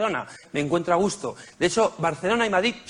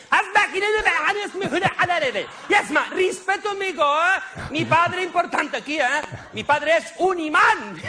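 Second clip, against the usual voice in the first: much higher, ranting vendor voice; angry street vendor; 12 semitones higher than usual. Retold or imitated. Comedian voicing the vendor yelling at him in the street, higher mock-angry vendor voice. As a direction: rant like an offended street seller. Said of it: "me ha gritado".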